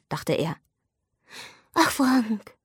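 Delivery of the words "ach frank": mocking mimicry of her sigh, higher; mock her pitying tone; nachgeäfft. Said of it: "äffte er sie nach". (spöttisch nachgeäfft, höher)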